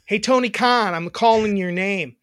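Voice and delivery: loud wrestler callout; wrestling promo. Pretend. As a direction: call out the boss like a wrestler. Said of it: "You're gonna cut a promo?".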